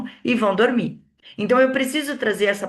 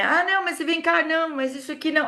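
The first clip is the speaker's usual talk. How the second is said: high, quick cutting-in talk show host; Fausto Silva interrupting; 8 semitones higher, faster than usual. Retold or imitated. Speaker mimics a TV host interrupting guests, high and quick. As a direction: barge in before they finish. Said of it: "A pessoa nem acaba Fausto Silva".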